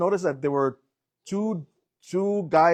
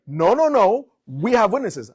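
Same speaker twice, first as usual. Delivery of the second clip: cop insisting loudly; 6 semitones higher, 6 dB louder than usual. Retold or imitated. Cop and speaker shouting back and forth.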